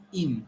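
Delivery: im, said with a short i; correct ending. Shown as a demonstration. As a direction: say "im" as a short, clear syllable. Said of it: "not m".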